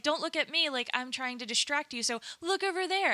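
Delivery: lightly voiced high politician; playful high distraction plea; drag queen politician. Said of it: "the politician's like".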